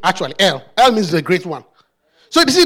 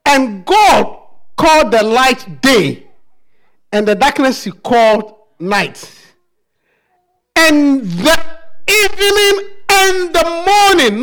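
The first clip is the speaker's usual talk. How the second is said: slow, solemn scripture reading; booming biblical narration; slower than usual. Acted. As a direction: read the verses slowly and gravely. Reading Genesis slowly.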